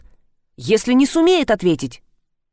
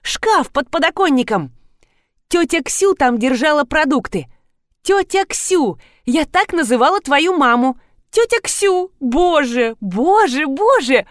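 high, emotional remembering; gushing out memories, pitch up; high overwhelmed reminiscing; excited; 5 semitones higher than usual. Acted.

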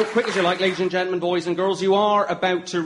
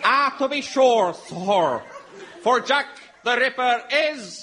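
mild Irish lilt; 7 semitones higher than usual. Acted. Irish witness reply.

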